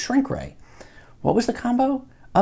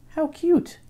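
mocking taunt; 12 semitones higher, 4 dB quieter than usual. Bully mocks the ring.

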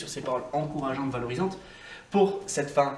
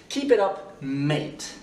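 cheering, affectionate; 3 dB louder, much slower than usual. Shown as a demonstration. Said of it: "la partie, euh, affective".

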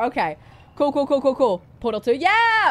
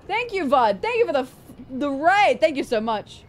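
excited; 5 semitones higher than usual. Real, not acted. Thanking raider on stream.

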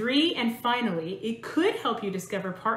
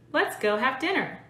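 more inflection; 3 semitones higher than usual. Shown as a demonstration. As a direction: overdo the ups and downs of "Let's go have dinner" for practice. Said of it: "I'll say this in two different ways".

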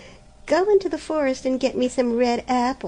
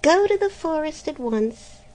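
higher, much louder raging threat; furious yelling; 7 semitones higher, 5 dB louder than usual. A narrator's reading. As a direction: shout the threat in fury. Stepmother scolding again.

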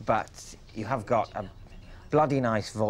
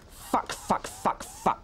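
breathless whispered swearing, higher; whispered curses; 8 semitones higher, 4 dB quieter, much slower than usual. Real, not acted. Mark, mortified after his voicemail, whispering curses. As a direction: hiss the curses under your breath.

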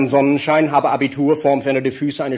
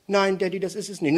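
glum quiet son; 5 dB quieter than usual. Acted. Son voiced in a joke.

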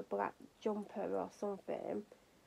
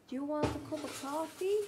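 "Do you want a cup of coffee?" in a vague put-on foreign accent, a bit higher; playful hyper silly accent, pitched up; unplaceable mock accent; 5 semitones higher than usual. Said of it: "I don't know what accent that was meant to be".

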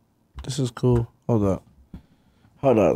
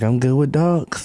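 slow, deliberate mock boast; drawn out like a proud dog person; mock dog lover; 3 semitones higher, 3 dB louder, slower than usual. Friend mocked for bragging about dogs, slow mock boast. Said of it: "And he's like".

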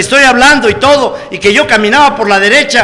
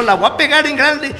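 laughing; 4 semitones higher, 4 dB quieter than usual. Retold or imitated. Boasting to his mother, laughing.

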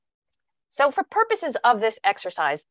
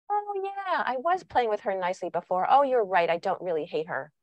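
mock agreement. Child supposedly giving in about the little sister, mock agreement. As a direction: imitate an implausibly agreeable child. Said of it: "how likely is it that she's gonna say".

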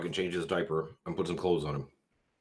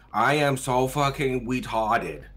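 higher, still slow and drawn-out reading; slightly faster sounding-out; 4 semitones higher, slower than usual. Pretend. Asked to read the gag phrase faster, still slow and drawn out. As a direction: read it a bit quicker, still stretching the syllables. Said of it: "I have to read it faster".

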